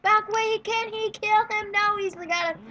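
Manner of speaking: breathless running game commentary; lively sportscaster-style game call; live play-by-play. Real, not acted.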